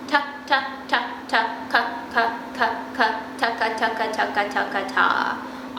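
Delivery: "ta" and "ka" as separate, evenly spaced syllables; slow breath accents. Shown as a demonstration. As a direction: say each "ta" and "ka" on its own puff of breath. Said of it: "still going slow and thinking about our breath accents".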